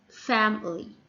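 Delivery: "family" as FAM-uh-lee; weight on "fam", reduced middle of "family"; stress on first syllable. Shown as a demonstration. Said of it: "stress falls on the first syllable".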